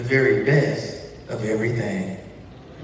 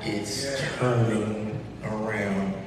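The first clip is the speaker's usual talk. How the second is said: slow emphasis; 4 dB quieter than usual. Shown as a demonstration. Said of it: "sermonic topic is turning around".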